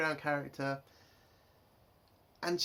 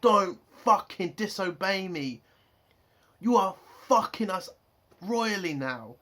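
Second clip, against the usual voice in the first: loud, emphatic mock order; angry captain's rebuke, acted; acted swearing reprimand; 5 dB louder than usual. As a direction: lay down the law, punching each word. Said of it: "if he's swearing at".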